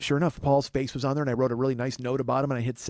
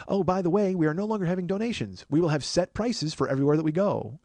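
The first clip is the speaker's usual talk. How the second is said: a hint of a chirpy announcement; lightly mocked company notice; 4 semitones higher than usual. Reading the ride company's note to listeners, lightly mocking. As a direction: read it like a corporate note, pitched up.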